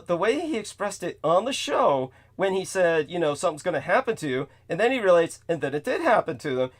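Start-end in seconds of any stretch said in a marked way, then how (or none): 3.3-4.5 imitating a matter-of-fact warning, quick and unemphatic; retold threat with no menace. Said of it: "He says that so matter-of-factly". 5.5-6.7 imitating someone reporting it as plain fact; unbothered, retold as simple cause and effect; matter-of-fact. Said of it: "He says that so matter-of-factly".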